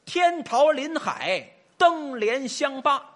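slow, deliberate recital of the eight characters; measured, half-chanted phrase; slow recitation. Shown as a demonstration. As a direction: spell out each word slowly for the listener. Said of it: "咱啊，说这么八个字".

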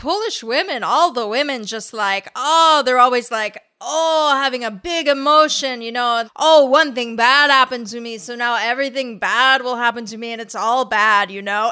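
loud, exclaiming imitated Polish accent; thick Polish accent. Imitating classmate on Polish women, Polish accent. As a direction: play up the Polish accent with big sighing ohs. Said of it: "had a thick accent".

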